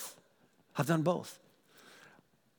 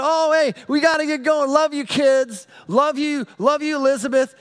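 calling out goodbye; 10 semitones higher, 8 dB louder than usual. Retold or imitated. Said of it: "I said".

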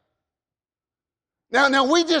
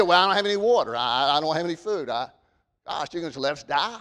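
whining complaint; 6 semitones lower, 5 dB quieter, faster than usual. Retold or imitated. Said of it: "They said".

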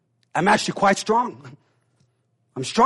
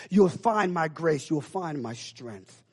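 tender reassurance; 2 semitones lower, 6 dB quieter, slower than usual. Acted. God reassuring Cain, tender and fading. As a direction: promise it gently, letting it fade. God's promise, fading gently.

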